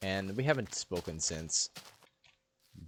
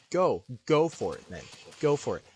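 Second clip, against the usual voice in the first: louder challenging go for it; mock defiant dare; 2 semitones higher, 4 dB louder than usual. Boy dares classmate to tell the teacher, mock defiant. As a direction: dare her to go, hammed up. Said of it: "I didn't say it like that".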